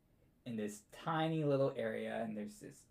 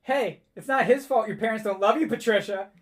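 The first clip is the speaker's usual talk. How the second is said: put-on scolding little girl; 8 semitones higher, 11 dB louder than usual. Halfling girl scolds the bully.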